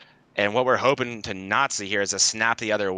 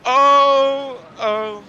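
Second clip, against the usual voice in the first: mock Scottish sound; 14 semitones higher, 8 dB louder, much slower than usual. Mock Scottish accent attempt.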